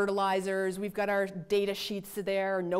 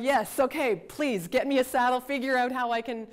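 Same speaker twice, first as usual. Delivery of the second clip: retold impatient plea, higher and louder; urgent plea; 4 semitones higher, 5 dB louder than usual. Stranded professor asking grad student for help, urgent. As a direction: beg for help, brushing the chatter aside.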